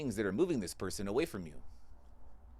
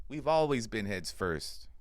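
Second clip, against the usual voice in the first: slow emphasis; slower than usual. Acted.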